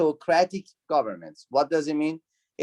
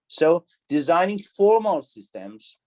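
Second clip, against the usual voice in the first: formal said slow and weighted; stress on formal; 3 semitones higher than usual. Shown as a demonstration. Teacher to class, stressing formal slowly. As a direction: lean on the word formal. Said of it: "Why we have some accent, some pressure, some emphasis on the word formal?".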